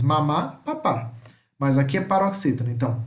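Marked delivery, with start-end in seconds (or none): 0.0-1.1 MAMÁ, PAPÁ stressed on the last syllable; final-syllable stress. Shown as a demonstration. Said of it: "aqui são oxítonas".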